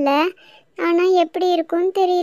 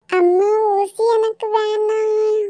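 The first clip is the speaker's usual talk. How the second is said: put-on scared child pleading; 5 semitones higher, much slower than usual. Child afraid of the injection.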